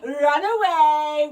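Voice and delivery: very loud, slow, rising boom; huge mechanical monster's roar; booming giant's command. A narrator's reading. Giant orders the children off.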